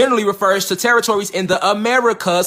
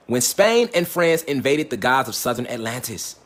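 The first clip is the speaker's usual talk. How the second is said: slow dramatic; 8 semitones lower, slower than usual. Shown as a demonstration. Teaching line, slowed for emphasis.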